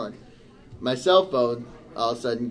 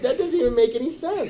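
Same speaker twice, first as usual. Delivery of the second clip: furious retold outburst; 9 semitones higher than usual. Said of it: "I get louder and louder".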